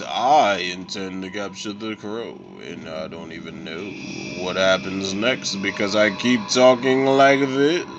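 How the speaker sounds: mock the villain's pompous slow talk; imitating the villain's slow speech. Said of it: "that's how he talks".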